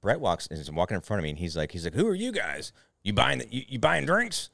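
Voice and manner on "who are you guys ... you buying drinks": high, big-guy caricature asking who they are; retelling the stranger grilling them over drinks, mock high voice; drunk guy voice. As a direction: ham up the drunk stranger's bluster.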